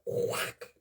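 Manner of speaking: soft imitated slap noise, breathed; miming the slap she saw in a video, breathed whack; whack sound. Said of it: "she goes".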